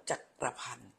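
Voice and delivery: three syllables in จักรพันธ์, sounding the middle "kra"; อ่านสามพยางค์. Shown as a demonstration. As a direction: read จักรพันธ์ in full as jak-kra-phan. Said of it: "เขาจะอ่านว่า". (อ่าน จักรพันธ์ ว่า จัก-กระ-พัน)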